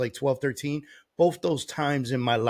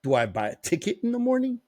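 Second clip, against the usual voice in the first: retold panic; 10 semitones higher than usual. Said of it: "now I'm like".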